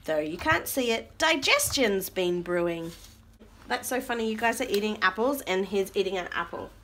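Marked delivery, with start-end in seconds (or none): 0.0-2.9 animated rhyming read-aloud; reading to children. Acted. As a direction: read the verse out for little listeners. Reads rhyming book aloud.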